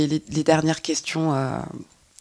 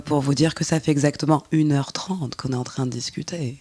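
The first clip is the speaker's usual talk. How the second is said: voix suave. Pretend. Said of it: "je reprends une voix suave".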